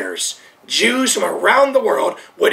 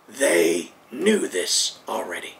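hushed; 7 dB quieter, slower than usual. Real, not acted. Preacher stressing the point.

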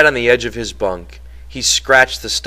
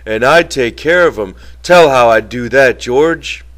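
eager; 3 semitones higher, 7 dB louder than usual. A narrator's reading. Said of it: "Lenny said eagerly".

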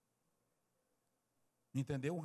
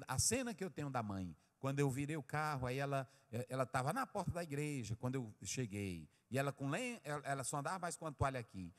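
normal talking voice

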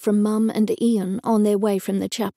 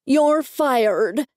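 yelled; 4 semitones higher, 3 dB louder than usual. A narrator's reading. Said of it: "pointed to it dramatically and yelled".

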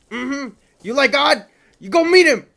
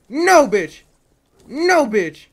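shout; 3 semitones higher, 7 dB louder, slower than usual. Real, not acted. Boss lands a hit.

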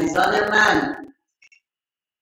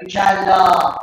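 emphatic shout; 5 dB louder, much slower than usual. Real, not acted. Teacher wrapping up the example.

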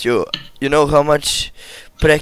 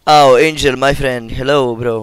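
big loud streamer welcome; loud greeting; 7 dB louder than usual. Real, not acted. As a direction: call out the name warmly and loud.

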